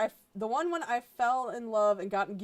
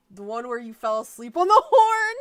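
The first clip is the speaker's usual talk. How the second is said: louder, hammed-up title shout; mock announcer yell; 4 semitones higher, 11 dB louder than usual. Reading a fanfic title to viewers, hammed-up shout. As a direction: bellow the silly title.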